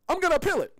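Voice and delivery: high, put-on indignant reply; mock defiance. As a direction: imitate a hopeless defendant's bravado. Voices a convicted murderer's reply.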